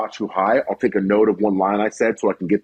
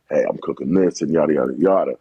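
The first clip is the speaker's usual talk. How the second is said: low, easy cooking voiceover; talking low over a cooking video; deep voiceover voice; 7 semitones lower than usual. Retold or imitated. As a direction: drop into a deep narrator register. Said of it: "you got a deep-ass voice".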